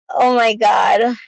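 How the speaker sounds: slow, stunned oh my God; the news hitting hard; shocked. Real, not acted. Hears son took pills.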